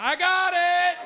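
high, loud, slowed showy shout; imitating a loud birthday payer; loud show-off. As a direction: make a big show of paying. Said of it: "that's when they get loud in the restaurant".

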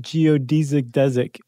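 "geodesic desic" as geo-DEE-zick DEZ-ick; long ee in "geodesic", short e in "desic"; both pronunciations run together. Shown as a demonstration. Host joking they say both, "geodesic desic" as DEE-zick DEZ-ick. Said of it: "Say 'em both".

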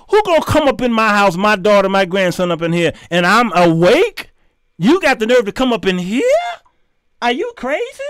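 fast, indignant challenge to a burglar; mock confrontation. Homeowner to burglar, fast indignant challenge. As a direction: call out the intruder, fast and offended. Confronting an intruder in his house.

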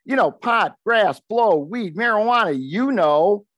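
smooth it over like a dealmaker; negotiating voice. Retold or imitated. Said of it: "went into my best negotiating voice while laughing to myself".

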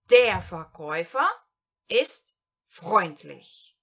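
slow German example. Shown as a demonstration. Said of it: "Primeiro exemplo".

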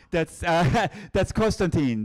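high, slow words through a laugh. Real, not acted. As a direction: chuckle the name out as you answer. Guide laughs answering his own question.

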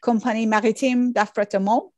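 self-confessed clumsy French accent on the company name; attempted French accent. Shown as a demonstration. Lecturer apologising for his French, reads the name in a modest French accent. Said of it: "please forgive my terrible French accent".

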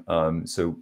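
normal talking voice

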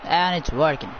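Norwegian gamer trying American English; put-on American accent, casual; American-style English. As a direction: play at an American commentator. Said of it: "today we're talking American stylish".

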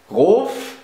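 roof read as German, "rohf"; Rof, as if a German word; totally German. Shown as a demonstration. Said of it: "I'll pronounce them totally German".

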